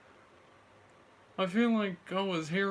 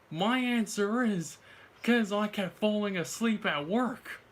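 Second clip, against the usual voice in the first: imitating partner; 4 semitones higher, 4 dB louder than usual. Acts out partner's excuse.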